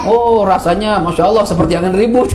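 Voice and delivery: a hammed-up ad line broken by laughter; teacher mocking an over-the-top food endorsement, laughing. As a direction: gush about the food while laughing.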